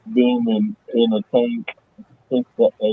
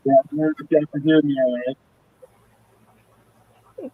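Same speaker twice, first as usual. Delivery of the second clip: muffled underwater; faster than usual. Real, not acted. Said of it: "No, he's underwater".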